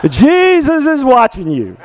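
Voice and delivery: high and laughing through the words; laughing repeat of the parrot's warning. Real, not acted. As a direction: chuckle the line out.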